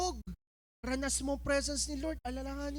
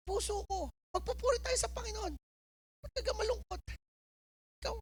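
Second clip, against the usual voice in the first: David pleading with his heart; 5 semitones higher than usual. Acted. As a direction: plead tenderly with your own sad heart. Plays David coaxing his heart.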